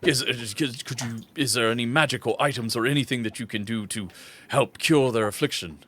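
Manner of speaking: halting, formal father character; lightly voiced dignified father; worried, courteous father. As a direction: ask politely for help, searching for words. Game master plays the father.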